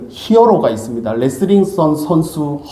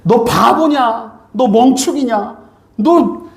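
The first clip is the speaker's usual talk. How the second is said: higher, slow mock tirade of insults; mock scolding; 5 semitones higher, slower than usual. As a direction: ham up a friend's angry rebuke. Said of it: "막 그러면서 이제 야단을 친 거예요". (천천히 높게 흉내 내는 야단)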